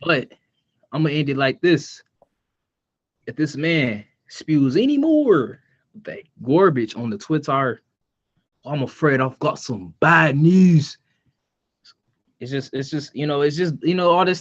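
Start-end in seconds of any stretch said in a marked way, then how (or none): 3.3-11.0 slow, deliberate catchphrase delivery; mock wrestling threat. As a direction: draw out the threat for the crowd.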